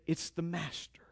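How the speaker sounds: hushed, breathless whisper; awed whisper. Acted. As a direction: whisper it in wonder. John recognizes Jesus, awed.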